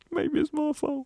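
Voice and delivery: real giggle through the words; high, slow, laughed-out admission; laughing. Real, not acted. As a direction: break up laughing while saying it. Laughs at own self-blame.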